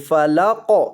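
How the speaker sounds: "فلا قو" with a thick, echoing qaf; short lam into a heavy "قو"; heavy, bounced qaf. Shown as a demonstration. Teacher showing students the word, "فلا قو" with heavy bounced qaf. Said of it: "قاف کو موٹا کر کے پڑھیں گے اور قاف کو ہلا کر".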